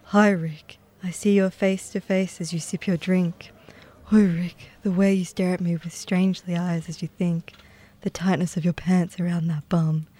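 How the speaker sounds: breathy, whispered love poem; hushed overwrought recital. Acted. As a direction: recite it like a swooning poet.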